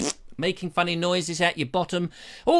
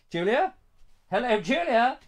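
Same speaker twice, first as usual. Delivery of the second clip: tag; 6 semitones higher than usual. Pretend. Calling to absent sidekick Julia.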